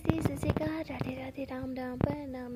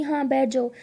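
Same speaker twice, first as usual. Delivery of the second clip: annoyed; 5 dB louder than usual. Retold or imitated. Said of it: "थोड़ा गुस्से में कहती".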